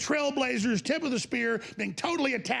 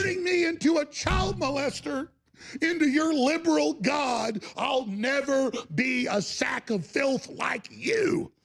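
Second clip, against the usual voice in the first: angry shout; 3 semitones higher, slower than usual. Real, not acted. Shouted defiance at enemies.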